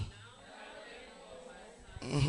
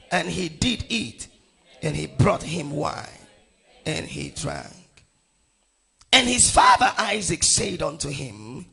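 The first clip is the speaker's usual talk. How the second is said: emphatic, measured Bible reading; scripture reading; 6 dB louder than usual. Acted. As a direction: proclaim the verse phrase by phrase. Reads scripture aloud to congregation.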